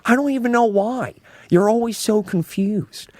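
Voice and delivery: pursed lips, airy wonder; Owen Wilson impression. Shown as a demonstration. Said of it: "a whisper foundation".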